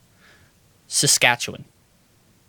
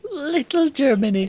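put-on much higher, playful Wisconsin accent; mock Midwest accent; 10 semitones higher than usual. Echoing co-host's story of locals, high Midwest accent.

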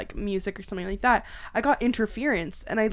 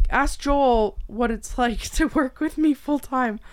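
laughing quote; 4 semitones higher, 4 dB louder, much slower than usual. Retold or imitated. Quoting a request with laugh.

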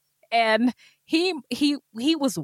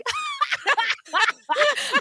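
high-pitched burst of laughing. Retold or imitated. Recounts laughing while trying to sleep.

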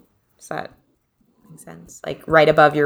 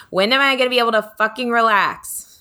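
higher, exasperated burst; frustrated outburst; 6 semitones higher than usual. Shown as a demonstration. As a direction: let the frustration out on fucking. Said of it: "because we're on the middle finger, so it's like, fucking".

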